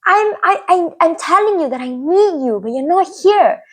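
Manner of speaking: high-pitched, stumbling plea; mildly acted wounded appeal; hurt protest. Acts out hurt disbelief at friend.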